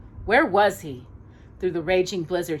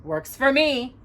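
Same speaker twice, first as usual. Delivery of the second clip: gleeful cry; 7 semitones higher, slower than usual. A narrator's reading. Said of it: "Jafar cried".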